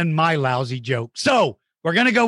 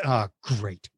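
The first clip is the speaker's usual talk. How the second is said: mock sarcasm; 4 semitones lower, much slower than usual. Sarcastic about being recorded.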